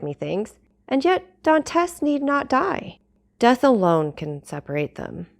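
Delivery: measured storytelling read with character voices; audiobook narration. A narrator's reading. Vlogger reading Dumas chapter to her audience, steady narration. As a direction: read the classic chapter aloud to listeners.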